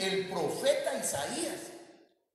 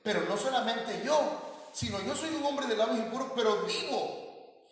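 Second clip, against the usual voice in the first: prophet's lament; 8 semitones higher than usual. Retold or imitated. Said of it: "Pero luego dice".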